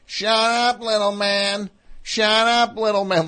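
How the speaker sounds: high-pitched mock yell at a roommate; imitating a yell. Imitating a neighbor yelling at his roommate, high mock yell. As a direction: bark it down at him, pitched well up. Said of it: "would just yell at the other guy".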